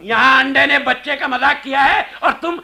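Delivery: angry. Acted. Insulted father scolds his son, angry. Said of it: "इतने नाराज क्यों हो रहे हो".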